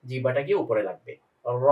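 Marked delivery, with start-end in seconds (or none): 1.5-1.7 র with mouth slightly open, tongue raised; heavy ra. Shown as a demonstration. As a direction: say র thick, lips loosely open. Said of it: "মুখটা হালকা খোলা থাকবে". (হালকা খোলা মুখে মোটা র)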